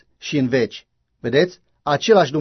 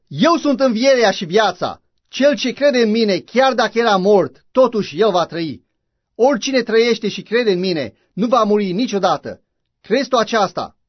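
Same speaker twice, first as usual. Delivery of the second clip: preaching; 5 semitones higher than usual. Acted. Preacher quoting Jesus.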